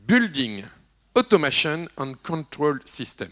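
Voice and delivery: English acronym read in a heavy French accent. Real, not acted. Deputy mayor joking about his French accent while spelling out BACS. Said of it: "Vous avez vu mon accent".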